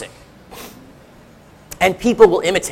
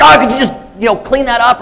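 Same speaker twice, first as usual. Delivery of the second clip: mildly exasperated parent, pitched up; mock exasperation; 5 semitones higher than usual. Dad to his kids over a mess, mock exasperation. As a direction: snap lightly, imitating an irritated parent. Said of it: "I'll be mad about one thing".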